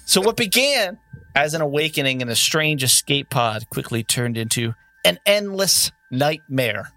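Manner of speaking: slow, ominous game master recap; dramatic recap narration. Acted. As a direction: draw them into the danger, slowly.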